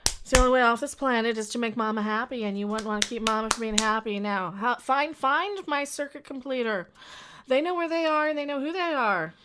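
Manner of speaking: loud, high, commanding Mama; Mama figure. Acted. Mama ordering her followers to make her happy, loud and high. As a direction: order them like a grand mother goddess.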